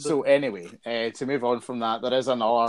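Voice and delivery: talking through cereal; words round a mouthful; mouth full. Real, not acted. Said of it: "I'm eating Special K now".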